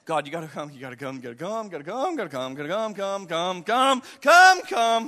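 desperate begging that swells from murmur to shout; pleading with God. Acted. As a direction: repeat the plea, climbing in pitch and volume. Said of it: "you've pleaded with God".

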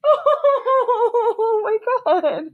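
real overwhelmed joy, voice climbing; overjoyed disbelief. Real, not acted. Asking her partner if the proposal is real, giddy high disbelief. Reacting to proposal on his birthday.

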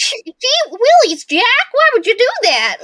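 high, loud mock dismay; exaggerated squeaky telling-off; mock scolding trainer. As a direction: wail it like a hammed-up goody-goody. Acting out the dismayed training guy.

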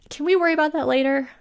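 fast, high urgent yell. A narrator's reading. Woman feeling through smoke to inn owner, yelling. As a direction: yell it impatiently, pitched well up. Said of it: "yelled Fiona".

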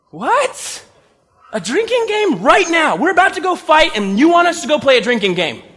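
can't believe the request; laughing disbelief. Acted. Gideon reacts to God's drinking game, laughing disbelief.

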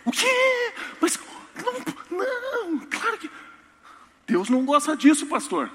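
very high, half-laughing cry of disbelief; outraged disbelief. Retold or imitated. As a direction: wail at the pastor in shock. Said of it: "bicho aí nasceu pra morrer". (grito agudo de indignação, meio rindo)

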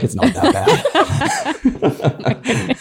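hammed-up joke voice of a torturer; mock Taliban captor. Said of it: "Even the Taliban was like".

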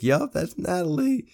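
a knowing, high, loud "yup" about his wife; amused husband. Retold or imitated. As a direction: play the husband, fondly resigned.

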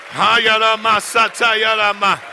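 rapid rhythmic syllables in tongues; speaking in tongues. Real, not acted. Preacher praying in tongues before the church.

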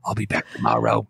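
detached and boring, full of hesitations; low droning official with long uhs; Fauci impression. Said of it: "but he's going".

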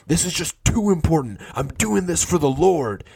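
lightly voiced zealot insisting; mock angry preaching. Quoting the angry fundraiser at lunch, high mock fervor. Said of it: "very angry".

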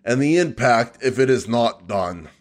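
slow, hammed-up Aussie accent; unpractised Australian accent, stretched out. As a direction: read it in a put-on Australian drawl. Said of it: "Here comes the Aussie in me".

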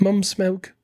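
creepy put-on British accent. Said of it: "It sounds so much creepier".

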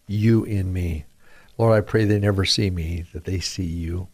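earnest, steady prayer voice; spoken prayer. Acted. Preacher praying on air, earnest prayer. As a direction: pray it humbly to the Lord. Radio preacher prays aloud.

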